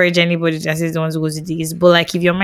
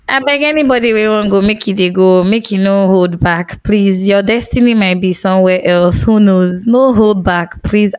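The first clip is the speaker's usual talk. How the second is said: playful, emphatic appeal, pitched up; impassioned plea. Pretend. Host begging listeners not to hold their partners back, impassioned plea. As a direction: plead their case with gusto.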